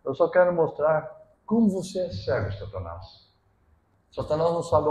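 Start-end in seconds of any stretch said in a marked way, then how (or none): 0.0-3.3 voice of God. Acted. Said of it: "Deus falando".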